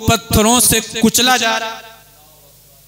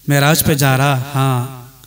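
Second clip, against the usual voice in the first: much lower, softened storytelling voice; low intimate dialogue; 8 semitones lower, 3 dB quieter than usual. Acted. Grandfather Ibrahim talking with his grandson about Meraj, low intimate dialogue. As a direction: drop down into a gentle private exchange.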